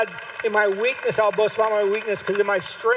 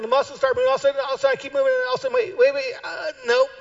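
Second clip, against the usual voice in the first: straining effort; 9 semitones higher, faster than usual. Acted. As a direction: pitch leaping up while straining. Acting out struggling to stand.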